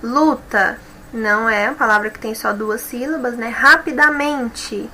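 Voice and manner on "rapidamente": "Rapidamente" said slowly, syllable by syllable; slow stressed demo. Shown as a demonstration. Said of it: "também não". ("Rapidamente" devagar, separando as sílabas)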